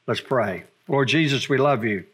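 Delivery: low, subdued prayer voice; closing prayer. Real, not acted. Preacher praying to the Lord after the sermon, low and subdued. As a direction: bring it down into a humble prayer.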